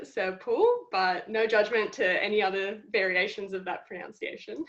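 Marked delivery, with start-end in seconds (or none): 0.0-0.6 Serpul with the second syllable like "pool"; careful demonstration of Serpul; pronouncing a surname. Shown as a demonstration. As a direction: show how Serpul is said, slowly. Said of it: "I pronounce it Serpul".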